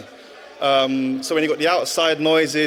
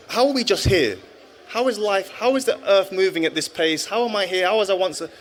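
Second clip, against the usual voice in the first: higher-pitched, retold questioning; retold wondering; 5 semitones higher than usual. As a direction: puzzle aloud, pitch lifted, as if lying awake. Retelling his youthful wondering questions.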